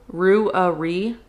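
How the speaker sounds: "Ruari" sounded out in three syllables; "Ruari" with a middle uh before the ree. Shown as a demonstration. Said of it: "roughly three syllables".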